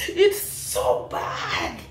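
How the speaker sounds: breathless laugh through the words; slow, almost-voiceless laughing disbelief; can't stop laughing at it. Real, not acted. Laughing at the comment.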